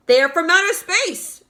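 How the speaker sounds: high, loud excited shout. A narrator's reading. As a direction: yell it up at the sky in wonder. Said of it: "they shouted".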